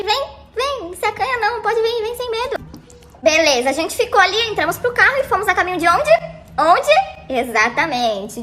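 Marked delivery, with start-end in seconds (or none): 0.0-2.6 mock seductive invitation. Narrator coaxing a shy guy closer, mock seductive. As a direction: lure him in gently, half joking.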